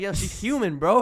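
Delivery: half-hearted retold shout; retold yelling. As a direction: act out protesting to a pushy friend. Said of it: "yelling at him".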